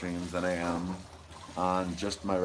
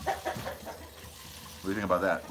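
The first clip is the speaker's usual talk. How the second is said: whispered aside; 3 semitones lower, 5 dB quieter, slower than usual. Acted. Whispered question to chat.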